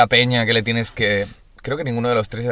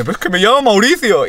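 put-on higher, louder whiny child excuse; whiny kid cousin; 9 semitones higher, 5 dB louder than usual. Cousin Mauro complains to the father, whiny and high. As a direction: protest like a sulky kid who was teased. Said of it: "y Mauro dice".

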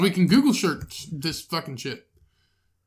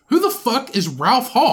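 loud laughing demand; laughing shout; 7 semitones higher, 5 dB louder than usual. Real, not acted. Friend demands answer, laughing.

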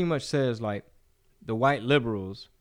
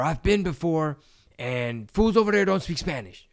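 higher, put-on comedian voice; imitating a comedian; 5 semitones higher than usual. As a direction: mimic a smug outsider comic. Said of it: "Or, or".

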